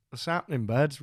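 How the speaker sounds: casual Welsh greeting; matey Welsh lilt; really Welsh. Retold or imitated. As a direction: greet him in a strong Welsh accent. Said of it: "Really Welsh".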